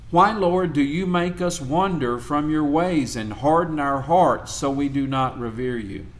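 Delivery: measured, solemn Bible reading; scripture reading. Acted. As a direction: read it out like a lector. Reads Isaiah aloud to class.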